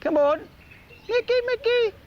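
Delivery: high sing-song call to a pet; calling the dog. Real, not acted. Owner calling his dingo over.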